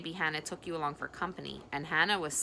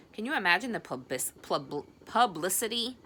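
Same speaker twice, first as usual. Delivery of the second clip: shuddering; 3 semitones higher, 3 dB louder than usual. Acted. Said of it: "she shuddered".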